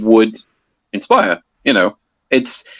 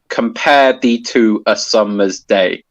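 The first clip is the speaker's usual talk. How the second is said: slow line with the stress on "pare", "thee", "sum" and "day"; alternating stress; slower than usual. Shown as a demonstration. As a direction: recite "compare thee to a summer's day" slowly, marking stressed and unstressed syllables. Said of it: "You can hear that some syllables are stressed".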